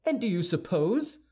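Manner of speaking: high, challenging question; indignant cry. A narrator's reading. D'Artagnan protesting to Aramis, crying out. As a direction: throw it back high, as a protest. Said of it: "cried D'Artagnan".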